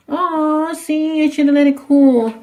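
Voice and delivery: high disappointed whine; high whiny voice. Real, not acted. Disappointed at muffin falling apart.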